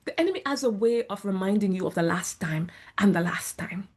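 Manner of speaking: hushed whisper. Real, not acted. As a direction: whisper it like a secret warning. Whispered aside about the enemy.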